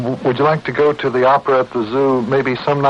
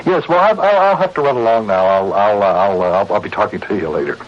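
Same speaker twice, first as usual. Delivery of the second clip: flustered goodbye. Acted. Flustered goodbye after bad news.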